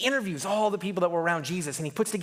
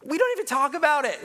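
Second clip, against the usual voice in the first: emphatic; 5 semitones higher, faster than usual. Shown as a demonstration. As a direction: punch it out with urgency. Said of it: "repeated with contrast".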